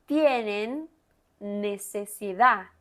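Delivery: necesidad ending in an open a, no D sound; dropped final d. Shown as a demonstration. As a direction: say necesidad as nesesiDA with the D silent. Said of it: "Mire qué interesante, la D en el final".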